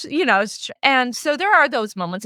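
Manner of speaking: usual speaking voice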